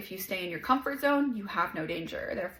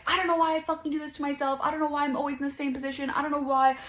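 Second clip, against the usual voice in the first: fast, higher, exasperated rant at yourself; frustrated self-talk; 4 semitones higher, faster than usual. Retold or imitated. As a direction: vent in harsh self-blame, rushing. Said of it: "being hard on yourself".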